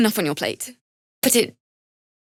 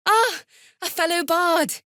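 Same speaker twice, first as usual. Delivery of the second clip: delighted surprise; 8 semitones higher than usual. Acted. Bard greeting another bard.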